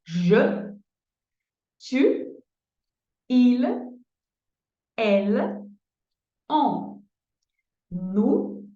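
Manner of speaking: slow, spaced French pronouns; careful French drill. Shown as a demonstration. Teacher drilling French pronouns for students. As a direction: spell each pronoun out slowly. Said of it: "Je vais répéter".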